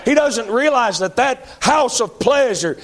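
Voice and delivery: fiery slow preacher's cry; preaching shout. Real, not acted. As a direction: drag it out and shout it at them. Preacher warns of hell.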